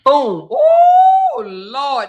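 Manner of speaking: sudden high cry of shock; shocked shout. Real, not acted. Host hearing the smack in the video, shocked high shout. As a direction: blurt it out, stunned by the hit.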